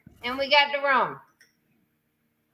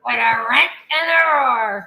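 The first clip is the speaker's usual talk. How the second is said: solemn recital; 4 dB louder than usual. Shown as a demonstration. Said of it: "I'm gonna say it, and you're gonna repeat after me".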